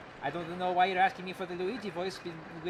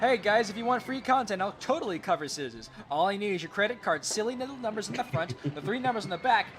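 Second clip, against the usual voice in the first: sleazy scammer voice; 5 semitones higher, 4 dB louder than usual. Acted. Reading a scam donation message.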